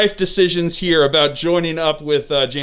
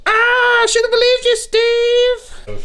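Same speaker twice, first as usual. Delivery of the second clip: much higher, strained dying cry; dying regret; slower than usual. Acted. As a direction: wail it with the last breath. Dying soldier's lament.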